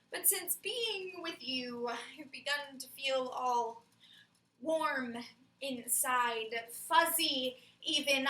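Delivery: slow, halting confession; reluctant tenderness. Acted. Confessing to a partner about feeling fuzzy inside, reluctantly tender.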